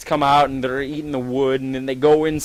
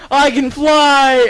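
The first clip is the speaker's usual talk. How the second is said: high, loud, drawn-out cry; mock delirious shout of triumph; elated yell; 12 semitones higher, 8 dB louder, much slower than usual. Deluded Seagull thinks he flies.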